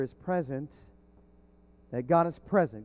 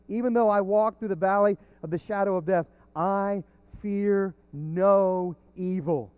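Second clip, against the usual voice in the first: rising fervent declaration; 3 semitones higher, 5 dB louder than usual. Retold or imitated. Preacher proclaiming the psalm to the congregation, fervent and building. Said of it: "David is declaring".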